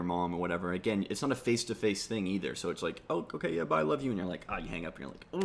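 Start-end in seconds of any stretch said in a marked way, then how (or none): 3.1-4.1 high, light and chirpy; cheery sing-song phone farewell; breezy phone goodbye. Retold or imitated. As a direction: toss off a quick bye like to mom.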